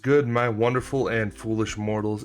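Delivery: grand villainous greeting; dark lord. Pretend. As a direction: address the mortals like an overlord. Villain-style channel greeting.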